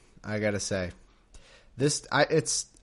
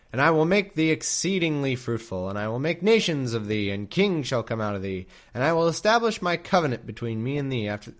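scripture reading. A narrator's reading. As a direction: read it like solemn scripture. Reads scripture aloud.

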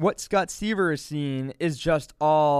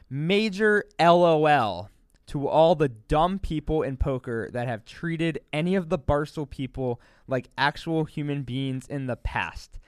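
reading aloud haltingly. Shown as a demonstration. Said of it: "let me read it word by word".

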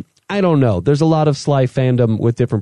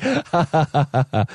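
mock laugh, soft staccato ha-has; imitated laughter; 4 dB quieter than usual. Retelling how they took the joke, mock laughter. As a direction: imitate their dismissive laughing in separate ha-has. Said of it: "And they're like".

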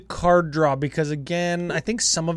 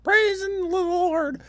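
much higher, slow, drawn-out holy rapture; ecstatic praise; slower than usual. Retold or imitated. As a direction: cry it out like a revelation. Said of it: "everybody was like".

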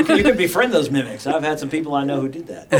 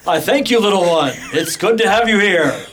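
cereal box superhero. Acted. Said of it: "he sounds like a cereal box superhero".

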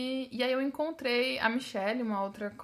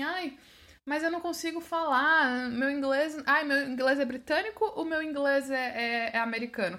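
insecure learner; 4 semitones higher than usual. Retold or imitated. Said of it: "a gente fica naquela coisa assim".

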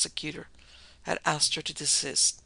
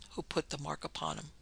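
much softer, subdued confession; dropped voice; 11 dB quieter than usual. A narrator's reading. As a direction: let the volume fall right away. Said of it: "her voice dropped".

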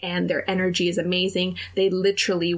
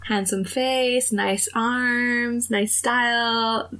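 slow, lilting compliments, slightly raised pitch; flirty listing; 4 semitones higher, much slower than usual. Retold or imitated. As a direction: count off his charms slowly and coyly. She flirts, listing his attractions.

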